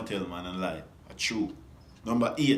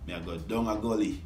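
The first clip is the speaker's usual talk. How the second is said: Jamaican patois example. Shown as a demonstration. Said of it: "we Jamaican pronounce it".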